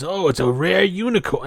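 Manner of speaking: a light New York accent, mocking; imitating a thug's New York accent. Podcast host mocking the ogre's New York accent. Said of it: "that stupid New York accent they're trying to imitate".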